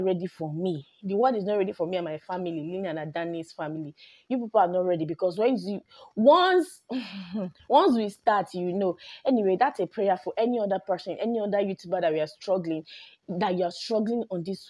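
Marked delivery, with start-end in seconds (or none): 6.2-8.5 excited boast. Real, not acted. Boasting future success.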